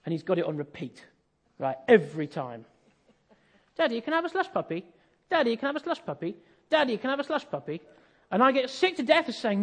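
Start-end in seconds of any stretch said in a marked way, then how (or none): 3.8-7.8 put-on nagging child.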